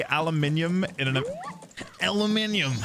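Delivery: aluminium with five syllables; British aluminium. Shown as a demonstration. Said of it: "If you really wanna make chat cry".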